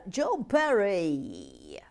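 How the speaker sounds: slow, breathy name call; breathy stretched announcement; slow whispered name. Acted. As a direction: drag the name out in a loud whisper. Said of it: "slow breathy name reading".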